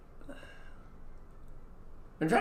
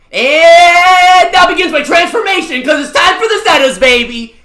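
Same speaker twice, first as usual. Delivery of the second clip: high, loud, slow and dramatic announcement; hammed-up villain-style announcement; dramatic hype; 11 semitones higher, 12 dB louder than usual. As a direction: proclaim it like an anime transformation. Hyping up the gacha pull.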